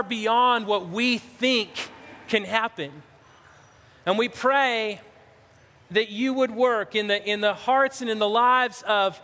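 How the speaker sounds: earnest, unhurried pastor's prayer voice. Acted. Pastor praying over volunteers and police, earnest prayer voice.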